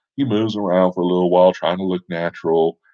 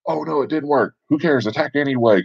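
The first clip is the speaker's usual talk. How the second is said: mock dismay; 8 semitones higher than usual. Party reacts to failed trap.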